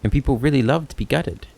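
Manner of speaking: lightly voiced kobold storyteller with a lilting tune; a hint of an eloquent kobold debater; philosophical kobold. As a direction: lay out a dilemma with mild theatrical relish. Kobold argues his hypothetical.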